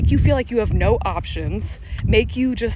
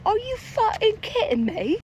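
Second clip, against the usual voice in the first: much higher, incredulous cry; retold disbelief; 12 semitones higher than usual. Retelling the bar encounter to viewers, a high incredulous yelp. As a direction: act floored that the guy was a cop. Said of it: "I was like".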